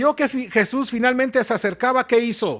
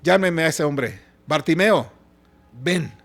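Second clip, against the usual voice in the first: lower, measured voice of command; lightly voiced Jesus, calm and lower; Jesus summoning; 5 semitones lower than usual. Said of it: "él dice".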